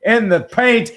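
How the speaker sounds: running basketball commentary, lifting on the basket; live play-by-play. Real, not acted. Following the ball to the layup, live play-by-play. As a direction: track each pass, then punch the score.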